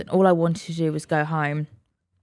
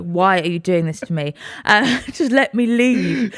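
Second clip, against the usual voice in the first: mock despair; slower than usual. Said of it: "I'm stood there like".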